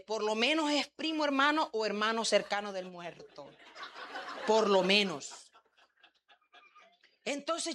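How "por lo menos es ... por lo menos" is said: laughing. Real, not acted. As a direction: laugh it off at the punchline. Joking about the weeping stranger.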